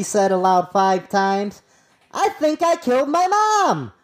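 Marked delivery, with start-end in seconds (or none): 2.1-3.9 raised, stunned delivery of the quote; dazed quote voice. Retold or imitated. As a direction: quote him like he is in shock. Quoting a dazed suspect.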